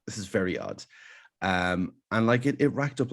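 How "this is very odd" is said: whispered under the breath in disbelief; stunned whisper. Retold or imitated. Watching himself on Irish TV, a stunned whisper. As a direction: hush it, half to yourself. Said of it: "And I was like".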